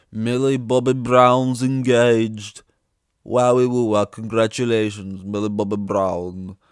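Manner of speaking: loud, slow drawn-out wow; hammed-up congratulations; mock excitement. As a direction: ham up the celebration.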